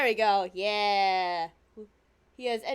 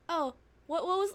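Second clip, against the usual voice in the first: normal talking voice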